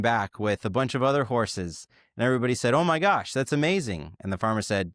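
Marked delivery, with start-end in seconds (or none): 2.7-4.1 high-pitched imitated wow from the neighbors; mock amazement. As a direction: lightly play an amazed neighbor. Neighbors react to good fortune.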